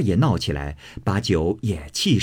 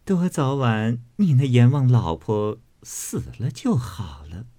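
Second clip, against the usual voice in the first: amused, spiteful wishing; 2 semitones higher than usual. Acted. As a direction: say it with sly amusement, fading away at the end. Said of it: "那妇人笑道". (笑着撒娇咒人，尾音转成气声)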